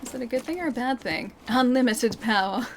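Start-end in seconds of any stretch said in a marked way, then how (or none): 1.5-2.7 Palpatine voice. Pretend. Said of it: "I do have a good Palpatine laugh".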